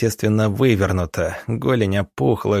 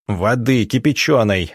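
barked order. Acted. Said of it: "рявкнул он".

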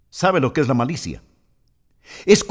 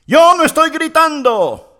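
higher, louder ironic yell of denial; mock shout; 11 semitones higher, 5 dB louder than usual. Preacher acts a spouse yelling in a marital quarrel. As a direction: shout that you are not shouting.

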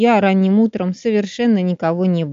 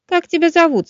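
chirpy bird; 9 semitones higher than usual. A narrator's reading. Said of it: "спросил Кеша".

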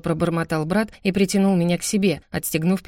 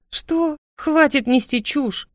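much higher, slow indignant shout-down; indignant outburst; 9 semitones higher, much slower than usual. Acted. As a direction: cut off his nonsense in outrage. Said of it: "возмутилась я".

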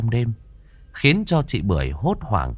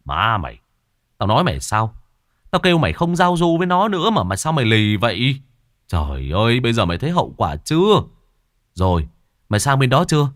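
angry scolding; 2 semitones higher, faster than usual. Acted. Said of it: "hùng hổ".

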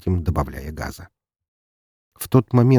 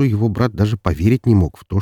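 plain reading voice

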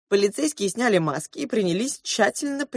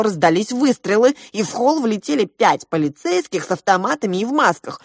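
ordinary delivery, nothing marked

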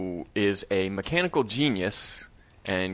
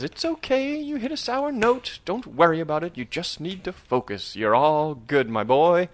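gently reassuring mentor, pitched up; calm and understanding; 6 semitones higher than usual. Retold or imitated. Piano teacher comforting his student after a sour note, calm and understanding. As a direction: soothe a nervous pupil in a lightly acted voice. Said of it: "incredibly calm and understanding".

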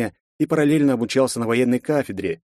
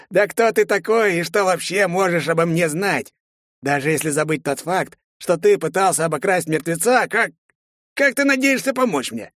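scornful skeleton; 6 semitones higher than usual. Acted. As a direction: sneer like an ancient corpse.

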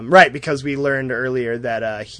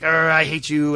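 raised, growled villain outburst; hammed-up hateful snarl; mock angry growl; 4 semitones higher, 5 dB louder than usual. Villain's growl in retold fight.

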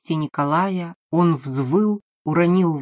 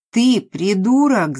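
slow, higher, loud yell; 5 semitones higher, 6 dB louder than usual. A narrator's reading. Maria yells at the frightened man, slow and loud. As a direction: bawl him out. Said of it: "заорала Мария".

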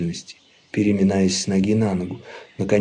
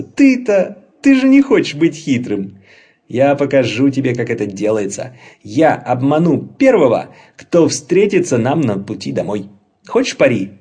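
sly troll brother; 3 semitones higher, 5 dB louder than usual. Acted. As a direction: boast like a cheeky troll who is sure he will win. Narrator voices Laban.

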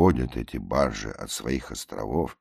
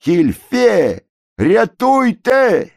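very high, loud, slow drawn-out cries; desperate yells; 8 dB louder, much slower than usual. A narrator's reading. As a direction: holler for help. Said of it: "кричат". (протяжный громкий крик)

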